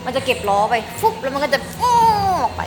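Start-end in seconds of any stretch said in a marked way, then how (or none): 1.0-1.1 imitated whoosh. Imitating spaceship wheels folding away. 1.8-2.0 imitated whoosh. Imitating spaceship taking off.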